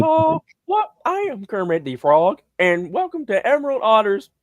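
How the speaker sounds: high puppet frog voice; hammed-up cartoon host welcome; Kermit the Frog. Greeting viewers of a parody video, high puppet voice. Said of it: "I was thinking of that Kermit video".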